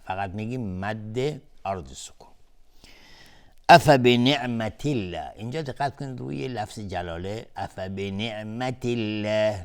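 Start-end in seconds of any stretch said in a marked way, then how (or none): 3.7-5.3 الله with a light, thin l after the i; thin Allah. Shown as a demonstration. Teacher showing tarqiq, الله pronounced light. 7.6-9.6 slow recitation, light l in الله; thin Allah. Shown as a demonstration. Teacher pointing out tarqiq, thin الله.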